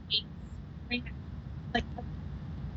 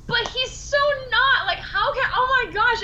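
pitched way up, incredulous protest; high protest; 12 semitones higher than usual. Retold or imitated. Defending Charlie to the director, high protest. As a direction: squeal out the disbelief.

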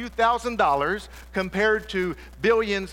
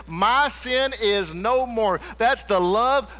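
preaching at full force. Acted. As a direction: preach it out to the whole room. Preaching about his own sins.

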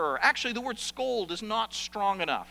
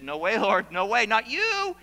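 tag; 5 dB louder than usual. Acted. Peter protests Jesus' coming death.

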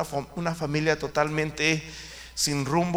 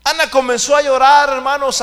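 dramatic preaching; 10 semitones higher, 14 dB louder than usual. Acted. Preacher dramatizes Ana weeping.

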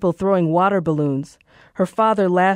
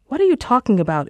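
alarmed; 6 semitones higher, faster than usual. Acted. Alarmed by the gunfire.

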